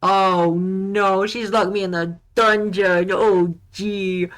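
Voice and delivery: loud, high panicked yelling; panicked shouting. Real, not acted. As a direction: panic loudly, out of control. Panics at being locked up.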